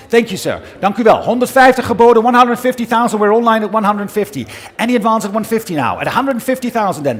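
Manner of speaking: brisk rhythmic auction patter; fine art auctioneer. Acted. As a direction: call the bids steadily, pressing the room. Auctioneer calling bids live.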